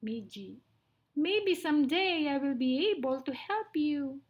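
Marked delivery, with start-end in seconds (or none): 1.2-4.2 slightly high, pleading mouse; begging mouse. Acted. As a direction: plead gently as a little mouse. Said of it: "begged Midgie".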